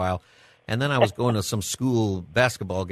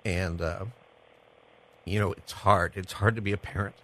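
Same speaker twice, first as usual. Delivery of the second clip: a touch choked up, halting. Real, not acted. Son thanking his parents on air, getting choked up. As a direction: hold back real emotion, with long pauses. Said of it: "I'm gonna get choked up".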